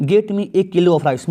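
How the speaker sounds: very slow, word by word; slow dictation of the exam sentence; slow read-aloud. Shown as a demonstration. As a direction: spell the sentence out slowly for students. Teacher reading exam sentence slowly.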